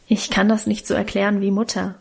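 mild, thoughtful explanation; deliberate. Acted. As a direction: weigh the words before saying them. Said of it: "sagte sie bedächtig". (bedächtig)

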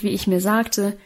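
ordinary delivery

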